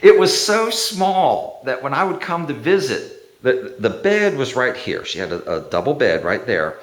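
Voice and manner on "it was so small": laughing. Real, not acted. Cracking up at own story.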